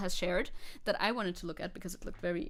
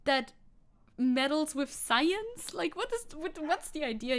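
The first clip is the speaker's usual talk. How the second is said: high, mock-innocent lawmaker voice; a hammed-up clueless official; 5 semitones higher than usual. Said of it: "They're just like".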